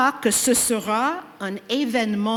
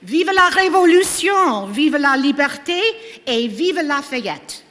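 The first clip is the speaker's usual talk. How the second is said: ranting dictator speech; 4 semitones higher than usual. Acted. Rallying cry at the gala's close.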